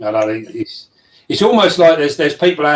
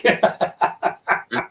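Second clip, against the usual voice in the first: pig-like snort; 5 dB quieter than usual. Real, not acted. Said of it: "Did you just snort?".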